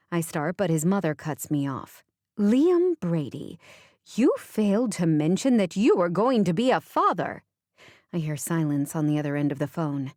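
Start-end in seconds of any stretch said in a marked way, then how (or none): 2.4-7.4 scolding. Acted. Mother scolding her son on the phone, stern. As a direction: lay down the law to her son.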